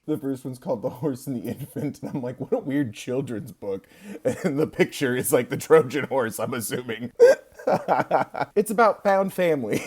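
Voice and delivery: muffled tunnel audio; like talking from the bottom of a well. Real, not acted. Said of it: "I also sound like I'm at the bottom of a well".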